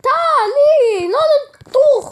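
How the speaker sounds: high, loud with laughter; laughing reply. Acted. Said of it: "replied their son".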